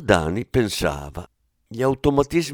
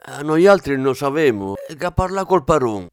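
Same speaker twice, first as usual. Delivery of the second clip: Venetian dialect; 5 semitones higher, 5 dB louder than usual. Acted. Plumbers answering in dialect.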